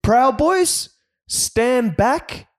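the misquoted first take, high; mock Trump. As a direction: squeak it out like a caricature. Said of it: "And Trump goes".

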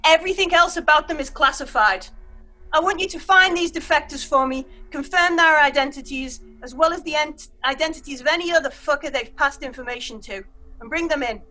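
barked military briefing; brief the squad like a stern major; gruff officer. Acted. GM voices the major.

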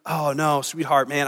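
mildly soft, low sympathy; acted husbandly tenderness, starting hushed; compassionate. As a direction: console an upset wife gently. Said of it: "meet her in a place of compassion".

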